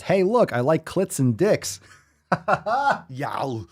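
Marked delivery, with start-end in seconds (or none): 0.0-1.8 mock announcement. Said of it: "wearing a sign that says".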